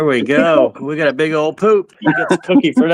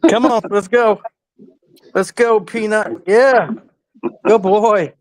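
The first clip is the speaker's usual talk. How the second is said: calling a dog; 4 semitones higher, slower than usual. Real, not acted. Coaxing the dog along.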